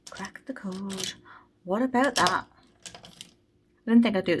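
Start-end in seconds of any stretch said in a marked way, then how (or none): 0.1-1.1 much softer, slow murmur of "Cracked the code"; quiet echo. Real, not acted. Saver repeating her win to herself, soft murmur. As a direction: say it again under her breath, pleased.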